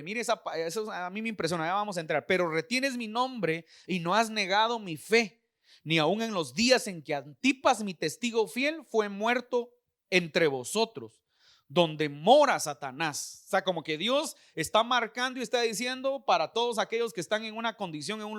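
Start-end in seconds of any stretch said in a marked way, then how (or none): 2.2-13.4 slow, measured verse reading; solemn scripture reading. Acted. Preacher reading the letter to the church, slow solemn reading. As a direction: read the verse slowly, phrase by phrase. Reads scripture aloud to the congregation.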